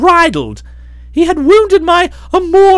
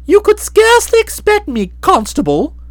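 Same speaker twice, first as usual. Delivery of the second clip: cold. Acted. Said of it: "I said coldly".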